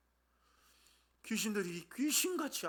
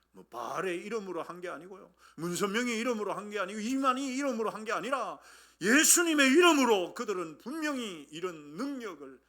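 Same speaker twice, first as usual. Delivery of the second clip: preaching at full force; 4 semitones higher, 8 dB louder than usual. Real, not acted. Preaches building list.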